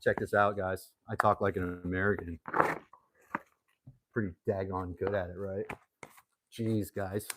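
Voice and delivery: lightly put-on American accent; mock American accent. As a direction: play a cheesy American bragging. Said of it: "You like my American accent?".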